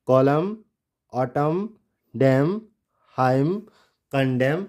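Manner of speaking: कॉलम, ऑटम, डैम, हाइम, कंडेम ending on M; one word at a time, कॉलम to कंडेम without final n; silent N. Shown as a demonstration. Teacher recaps how to read them, silent N. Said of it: "एन pronounce नहीं करेंगे".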